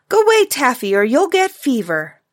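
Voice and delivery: high, loud warning call, dropping at the end; urgent pretend warning; imagined warning. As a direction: call out a warning to keep away. Taffy voices her father's imagined warning.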